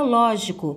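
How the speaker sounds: lógico with a strong first syllable; lógico, weight up front on "ló"; stress on LÓ. Shown as a demonstration. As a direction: lean on "ló" in lógico. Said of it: "o ló é a sílaba tônica".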